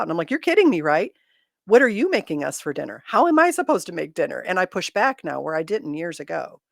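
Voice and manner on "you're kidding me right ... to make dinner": loud, incredulous retort to husband; high and indignant, calling him out; exasperated pushback. Retold or imitated. Scoffing at husband asking her for dinner, loud and incredulous. Pushing back at husband now.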